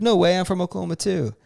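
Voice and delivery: high-pitched friendly surprise; super nice. Retold or imitated. Guy bonding with a lady from Oklahoma, super nice. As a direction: act delighted at the coincidence. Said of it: "super nice".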